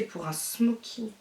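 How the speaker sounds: soft, breathless whisper. Real, not acted. Vlogger whispering over a dark shade for a smoky eye. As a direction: hush the words as if marvelling.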